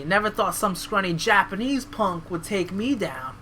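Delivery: clumsy attempt at a Southern accent; badly faked Southern wrestler. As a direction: feel your way into a Southern accent. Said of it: "that's bad, that's terrible".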